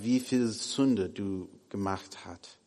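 usual speaking voice

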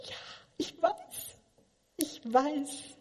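smug agreement. Retold or imitated. Acting smug self-reply.

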